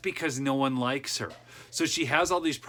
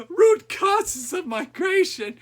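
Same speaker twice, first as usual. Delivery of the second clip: slow, scornful repeat of root causes; scoffing echo of a buzzword; mocking disbelief; 5 dB louder, much slower than usual. Mocking the quoted phrase back.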